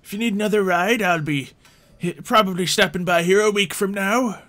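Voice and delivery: high, loud, friendly NPC voice; a chipper villager greeting travellers; the game master voicing a cheerful local; cheery NPC. GM holds NPC voice.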